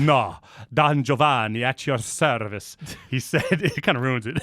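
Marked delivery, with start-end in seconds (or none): 0.0-2.8 slow, hammed-up Italian accent. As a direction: play a bad Italian seducer. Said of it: "I can't do an Italian accent".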